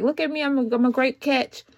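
mock showing off a fake personality; lightly voiced fake charm to impress him; fake sweet front. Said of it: "little fake little personality".

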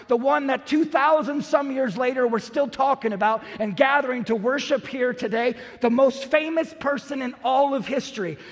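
rising, ringing proclamation; preacher exalting Jesus before the crowd; preaching build. Acted. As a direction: build it up like a herald.

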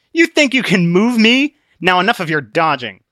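high sneering taunt; Obstinate, mocking. Obstinate taunting Christian after laughing. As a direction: scoff at his push.

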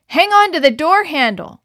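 high, loud desperate shout; frantic yell. A narrator's reading. Gordon to Dawn in the current, frantic yell. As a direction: yell over the rushing water. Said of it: "yelled Gordon frantically".

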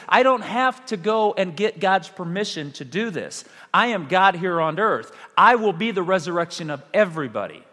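firm and emphatic, without anger; affirmative. Acted. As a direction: assert your authority as you teach. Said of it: "is a little more affirmative".

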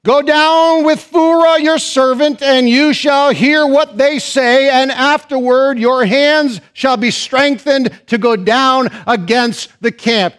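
a slow, booming divine command; voice of God. Acted. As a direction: proclaim it like God commanding from above. Preacher voicing God, booming.

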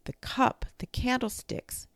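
high-pitched fretting; worried child's high voice. A narrator's reading. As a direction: fret in a high little voice. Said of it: "Benny worried".

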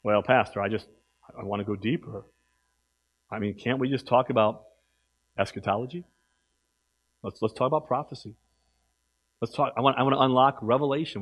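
low, soft mocking voice of a know-it-all; mock the guys who want deep talk; mocking whiny churchgoer. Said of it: "I've heard them say".

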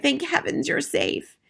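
high, slow grandmotherly relief; tender, drawn-out exclamation; relieved cry. A narrator's reading. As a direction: welcome a child back safe. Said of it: "she cried".

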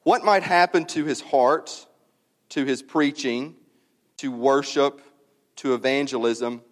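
measured reading with weighty pauses; deliberate, spaced-out pulpit reading; solemn reading aloud. Real, not acted. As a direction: read it to the congregation phrase by phrase. Reads a written prayer aloud.

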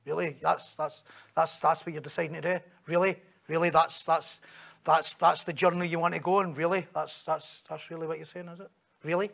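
muted, incredulous challenge; sceptical questioning. Shown as a demonstration. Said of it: "that's how James is writing this".

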